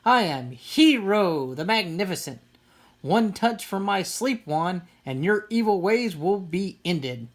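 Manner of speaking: a hint of a grand hero voice; pretend superhero. Sister playing superhero with her brother, mock grand. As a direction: lightly proclaim like a pretend hero.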